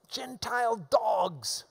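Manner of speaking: slow whisper; whispered slur. Acted. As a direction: whisper Gentile dogs slowly. Quoting a slur in hushed tone.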